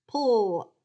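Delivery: "Pull" alone, loud and drawn out; long falling "Pull", no E heard; silent E syllable. Shown as a demonstration. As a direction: say "Pull" as a bare word ending. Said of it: "I don't hear that E".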